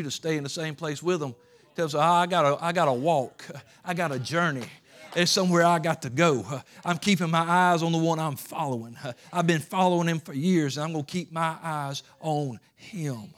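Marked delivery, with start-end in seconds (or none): 2.0-13.3 determined declaration. Retold or imitated. Prophet answering the doubters.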